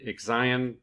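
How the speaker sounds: Exion said as ig-ZAI-un; tentative pronunciation. Shown as a demonstration. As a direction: say Exion with a zai in the middle, stressed. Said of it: "that's how I think it's pronounced".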